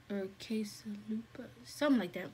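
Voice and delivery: whispering. Real, not acted. Unsure aside about the name.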